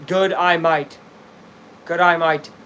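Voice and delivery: trying out an Aussie twang; lightly put-on Australian accent. Shown as a demonstration. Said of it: "does that sound Australian".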